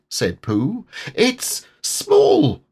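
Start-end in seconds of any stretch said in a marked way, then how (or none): 1.1-2.6 very high, excited squeal; shrieked excited discovery; excited cry. A narrator's reading. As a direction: burst out with discovery. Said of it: "cried Piglet".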